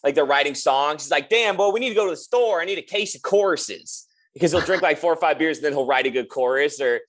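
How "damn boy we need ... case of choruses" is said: Southern twang. Retold or imitated. Drummer imitating his Louisiana bandmate at songwriting, light Southern twang. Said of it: "he's got the Southern twang".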